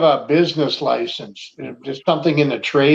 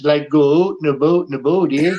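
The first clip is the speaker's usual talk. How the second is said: mock Canadian. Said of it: "don't forget the Canadians".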